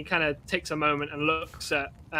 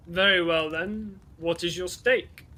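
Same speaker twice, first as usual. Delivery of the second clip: a touch louder, calm challenge; lightly amused warrior; 3 dB louder than usual. Acted. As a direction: accept the bet with ease. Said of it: "he, like, laughs and goes".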